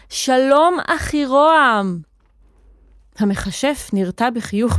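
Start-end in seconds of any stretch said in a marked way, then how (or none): 0.1-2.0 קריאה גבוהה ומתמשכת; להכריז בקול רם ולמשוך את המילה האחרונה; צעקה בפה גדול. A narrator's reading. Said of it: "ואז צעק בפה גדול". (צועק בפה גדול)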